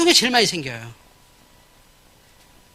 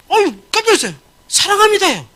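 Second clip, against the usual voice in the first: 높고 과장되게 들뜬 상담원 말투; 손님을 반기듯 한껏 들떠서; overly sweet agent; 8 semitones higher, 5 dB louder than usual. Retold or imitated. 지나치게 상냥한 상담원 흉내. (상냥함이 넘치는 콜센터 상담원 흉내)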